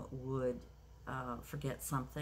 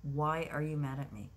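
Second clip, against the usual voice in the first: firm, not angry; 4 dB louder than usual. Shown as a demonstration. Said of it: "but in a firm way".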